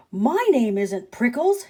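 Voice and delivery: yell back. Acted. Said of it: "Hank yelled back".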